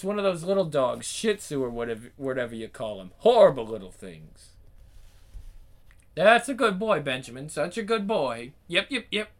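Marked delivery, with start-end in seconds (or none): 6.1-9.3 high cooing at a pet; cooing dog owner. Acted. The owner coos to her dog Benjamin. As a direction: coo over the little dog.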